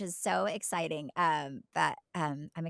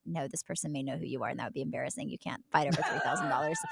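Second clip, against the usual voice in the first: laughing self-talk; 5 semitones lower, 4 dB quieter, faster than usual. Retold or imitated. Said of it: "but then I said".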